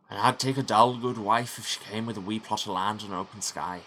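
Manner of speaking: lightly put-on Scottish accent; trying for Scottish. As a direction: push the Scottish, it keeps slipping. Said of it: "try and get more Scottish".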